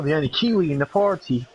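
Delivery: bad attempt at a Kiwi accent; lightly put-on New Zealand accent. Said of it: "that was the worst Kiwi accent I've ever done".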